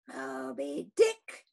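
mild startled shout, slow; shouted question. Acted. Captain shouts back the whale's name, startled. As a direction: seize on the name. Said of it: "shouted Ahab".

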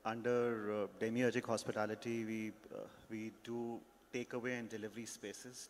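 ordinary talk

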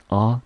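啊 as the stressed O sound; open "ah" vowel. Shown as a demonstration. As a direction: model a clear open 啊. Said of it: "所以O念成啊的音".

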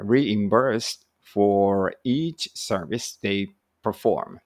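slow, deliberate English read-aloud; slow careful reading. Shown as a demonstration. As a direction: read each phrase out slowly for learners.

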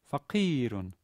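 faqirun with a long stretched i. Shown as a demonstration. Teacher demonstrating the long i in faqirun. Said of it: "Note that the E there is a long E".

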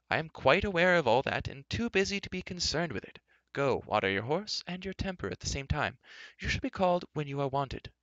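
put-on high-pitched, brisk old man's voice; dismissive old enchanter. Old enchanter sending an arrogant prince away, dismissive. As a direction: send him off with lofty authority.

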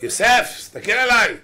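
high-pitched, insistent mock woman's voice. Woman begging Yosef to look at her, high insistent cry. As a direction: demand attention in a high voice.

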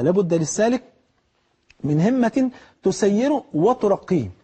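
slow, deliberate sermon refrain; slow emphatic maxim. Acted. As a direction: draw out لابد للسالك من همة slowly, weighting همة. Repeats maxim slowly.

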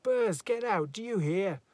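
shouted high and loud; a sharp commanding yell; sharp, clear. Acted. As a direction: order him out at full voice. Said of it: "Then sharp, clear".

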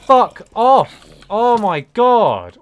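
loud, furious yell; angry shout. Real, not acted. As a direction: bark it out in real rage. Raging at mob.

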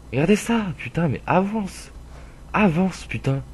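high, pleading road rage; exasperated yelling. Real, not acted. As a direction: yell at the car to move. Stuck behind traffic, urging car on.

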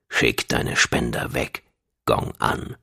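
low, soft, slow order; deep menace. A narrator's reading. Dashab orders Gong with weapon drawn, deep menace. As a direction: give the order deep and quiet, dangerously controlled.

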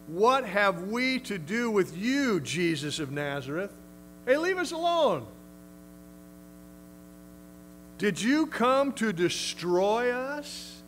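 voiced demon. Preacher voicing the demon.

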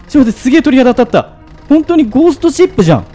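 fast, high and loud, thrilled; goosebumps excitement. Real, not acted. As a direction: rattle it off in awe.

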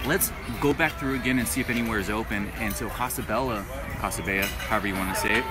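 ordinary delivery

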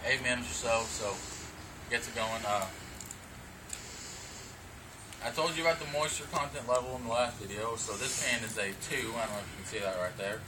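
talking around a dip in the lip; lip full of dip. Real, not acted. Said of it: "so I already got my dip in".

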